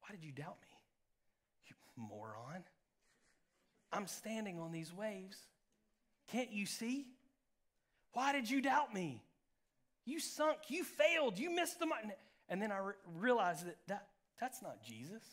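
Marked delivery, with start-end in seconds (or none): 0.0-9.2 mock scolding, climbing higher as it builds. Jesus scolding Peter as the preacher once pictured it, scolding. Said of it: "like he's scolding Peter". 10.1-12.1 high-pitched mock tirade; scolding. Jesus listing Peter's failures, as once imagined, scolding. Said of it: "like he's scolding Peter".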